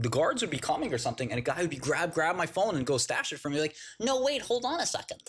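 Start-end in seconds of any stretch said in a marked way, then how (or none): 4.0-5.2 high, hurried plea; mock panic, voice jumping up high; frantic stalling. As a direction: beg for one more second, high-pitched. Hiding phone from guards.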